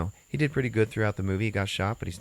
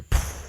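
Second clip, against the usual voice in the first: puffed muffled shot sound; imitated gunshot. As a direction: puff out a distant gunshot. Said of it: "you hear a shot".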